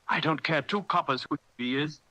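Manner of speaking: put-on high gruff cry of an old sailor; cried. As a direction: bark it as the one-legged landlord. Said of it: "cried Silver".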